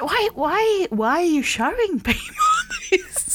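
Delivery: high, laughing disbelief; incredulous laughing. Retold or imitated. Asking the fixer why he shows people, laughing disbelief. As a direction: plead through giggles.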